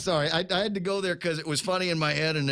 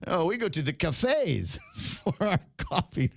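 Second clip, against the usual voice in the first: slow, haughty upper-class drawl; snooty voice; 3 semitones higher, slower than usual. Pretend. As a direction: sniff at gas station coffee. Mocking snobs, laughing.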